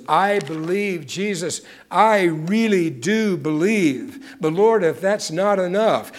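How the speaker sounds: pleading father. Acted. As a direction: cry out to Jesus like a desperate father. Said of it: "he cries out to God".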